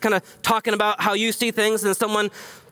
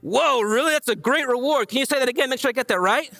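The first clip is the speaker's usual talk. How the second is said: lightly voiced eager surprise, a bit higher; mock excited; 5 semitones higher than usual. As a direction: play a wide-eyed, thrilled listener. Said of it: "Or maybe he's just saying".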